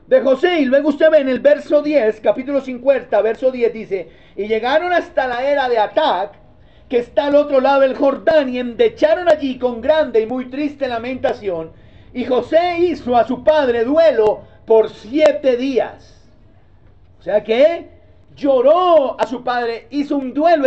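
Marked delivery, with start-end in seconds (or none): 4.4-16.3 preacher reading the text; scripture reading. Acted. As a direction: read out the lament verse gravely. Reads scripture aloud.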